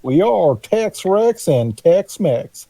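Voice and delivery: slow, grand declaration; slow dramatic announcement. Pretend. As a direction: proclaim it slowly, like a title. Joining the duo's name chant.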